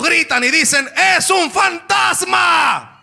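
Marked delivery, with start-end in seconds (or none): 1.2-2.9 frightened cry. Acted. Disciples cry out in fear.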